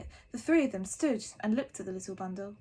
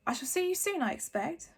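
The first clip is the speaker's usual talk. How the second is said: high crisp witch farewell; lightly voiced stern teacher; 6 semitones higher than usual. A narrator's reading. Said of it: "Professor McGonagall said".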